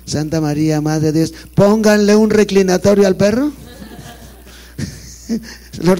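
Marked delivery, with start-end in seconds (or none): 1.5-3.5 louder, higher indignant order; pompous demand. Retold or imitated. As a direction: demand a kneeler for the dog. Sacristán exige para el perro. (exigencia indignada y fuerte)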